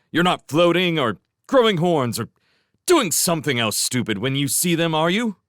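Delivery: high, loud, fast scolding; exasperated scolding. A narrator's reading. Master scolding his bungling servants, exasperated. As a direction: berate them for bungling.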